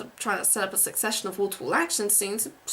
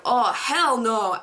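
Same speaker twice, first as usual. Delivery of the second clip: lightly voiced sassy agent, drawn out; sassy FBI agent; 4 dB louder, much slower than usual. Imagined agent cameo in an action movie, mildly sassy. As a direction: stretch it slowly with a hint of sass. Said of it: "as a sassy F B I agent and go".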